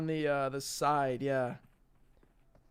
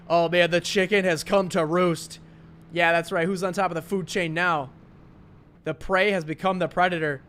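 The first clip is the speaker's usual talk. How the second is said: hyped commentary; 4 dB louder than usual. Real, not acted. Hyped play-by-play of the kill.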